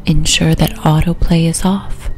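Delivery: unhurried relaxation voice with long pauses; guided hypnosis. Acted. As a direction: guide the listener gently down toward sleep.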